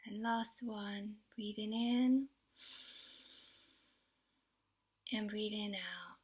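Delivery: gentle, unhurried guiding with long pauses; children's relaxation exercise voice; guided meditation. Acted. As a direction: ease young listeners into calm, phrase by phrase. Leads a breathing exercise.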